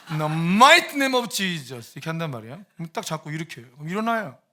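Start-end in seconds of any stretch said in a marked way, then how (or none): 0.1-1.9 heavy emphasis landing on mighty. Showing how to say a healing prayer: strong stress on mighty. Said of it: "might 이게 중요해".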